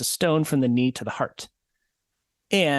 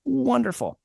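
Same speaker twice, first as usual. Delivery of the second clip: mock cheerful; 11 semitones higher than usual. Real, not acted. Sarcastic comment on story.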